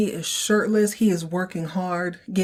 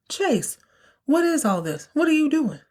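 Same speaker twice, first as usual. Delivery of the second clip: higher, pitched-up demanding aunt; 9 semitones higher than usual. Retold or imitated. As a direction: quiz him like a nosy aunt. Angela confronting Chase, voiced.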